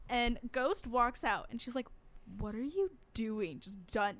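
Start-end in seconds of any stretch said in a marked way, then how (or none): 2.4-3.6 fed up. Retold or imitated. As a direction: ask it slowly, completely done with them. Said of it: "completely done with me at this point".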